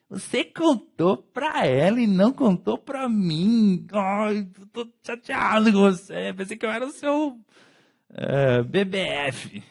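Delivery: whiny, high, slow mock complaint of a sulking friend; hurt friend. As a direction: play the offended best friend, pouting. Amigo magoado reclamando. (amigo magoado, voz chorosa e aguda)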